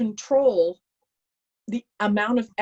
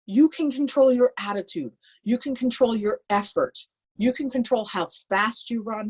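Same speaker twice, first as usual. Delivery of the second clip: retold coach yelling; 3 semitones higher than usual. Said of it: "he's yelling at me in my face".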